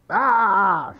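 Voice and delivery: loud, high yelp of alarm; startled cry. Acted. Mort bumps into something and runs, startled cry. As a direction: cry out as if you bumped into something.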